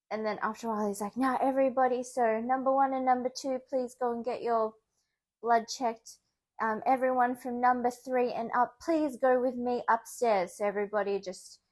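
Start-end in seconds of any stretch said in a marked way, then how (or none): 1.2-10.5 louder and higher, addressing the whole waiting room; a mock public announcement, raised voice; imitating a doctor's announcement. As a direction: call out to everyone like staff giving instructions. Doctor calling the waiting patients.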